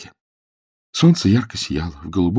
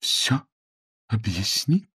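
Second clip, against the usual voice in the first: icy cold; 4 semitones higher, 4 dB quieter, slower than usual. A narrator's reading. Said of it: "голос её был холоден, как лёд".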